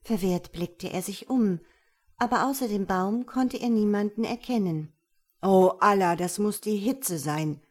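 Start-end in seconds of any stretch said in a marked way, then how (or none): 5.4-7.6 sighing. Acted. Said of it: "seufzte er".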